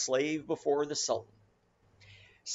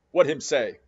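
puzzled Queequeg; 7 dB louder than usual. Acted. Queequeg asks Ishmael, puzzled.

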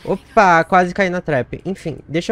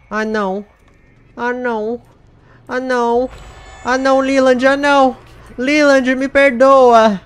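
high, loud mock wail, slow at the end; hammed-up despair; 10 semitones higher, 9 dB louder, slower than usual. Gamer mourning dead teammate Leland, hammed-up wail. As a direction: wail over the fallen friend, overdone. Teammate dies, dramatic grief.

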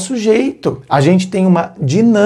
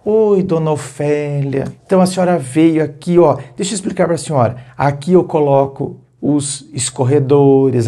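polite explaining. Shown as a demonstration. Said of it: "a maneira como a gente fala".

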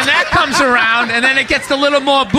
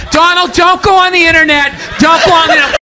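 slightly raised, lightly voiced pleading woman; 3 semitones higher than usual. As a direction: lightly act a woman begging him to stop. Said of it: "probably some woman there going".

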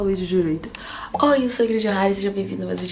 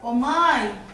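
higher, louder dazed calling for mom; sleep talking; 4 semitones higher, 3 dB louder than usual. Pretend. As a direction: call out for mom in a trance. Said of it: "fingir que eu tô sonâmbula". (sonâmbula chamando a mãe)

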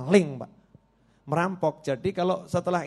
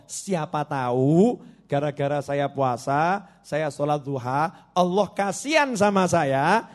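earnest hopeful plea; 4 dB louder, slower than usual. Acted. Robber explains to his questioner why he still prays, earnest plea. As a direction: plead slowly, swelling toward the last word.

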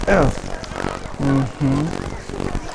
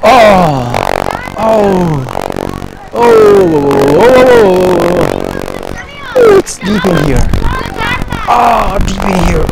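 excited exclamations; 3 semitones higher, 5 dB louder than usual. Real, not acted. Still in deep water.

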